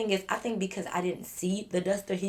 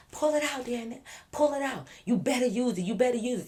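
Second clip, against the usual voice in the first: taunting yell; 4 semitones higher than usual. Retold or imitated. Drunk friend taunting armed man.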